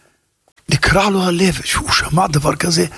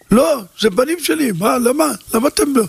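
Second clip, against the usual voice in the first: much higher, indignant scolding; mock tyrant father; 7 semitones higher than usual. Father scolding over his children, mock indignant. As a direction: play the house dictator demanding answers.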